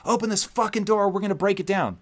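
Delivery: high, mock cop shouting at the door; police yelling. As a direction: bark like an angry cop banging on the door. Police pounding, shouting through door.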